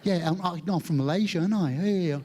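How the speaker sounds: hammed-up mock British accent. Malaysian adapting on meeting a British person, hammed-up British accent. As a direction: overdo a British accent while agreeing eagerly. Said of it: "suddenly we meet a British person".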